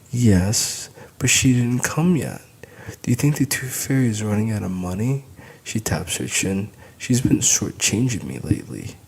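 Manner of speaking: put-on high, loud child's voice; little girl. A narrator's reading. Daughter telling dad about the tooth fairy, high. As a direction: chatter like an eager little girl.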